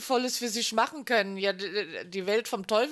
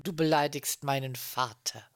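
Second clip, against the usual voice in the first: low menacing demon speaking through someone; possessed demon voice; 7 semitones lower than usual. Pretend. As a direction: growl it low like a demon inside a person. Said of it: "erst würde ich sagen".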